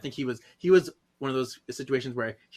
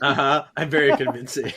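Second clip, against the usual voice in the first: laughing; 5 dB louder than usual. Real, not acted. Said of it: "Further evidence?".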